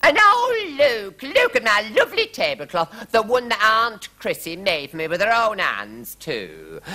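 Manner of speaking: high-pitched melodramatic lament; loud start, tailing down at the end; wailing queen. A narrator's reading. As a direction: bewail it shrilly as the queen. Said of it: "talking and wailing and moaning".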